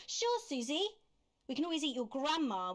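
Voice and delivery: high, sing-song agreement; mock pushover. Mocks Alex giving in to Susie.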